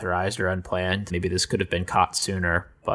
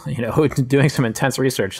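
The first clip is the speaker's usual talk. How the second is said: laughing; 5 semitones higher, 5 dB louder than usual. Real, not acted. Joking about checking SSL certs.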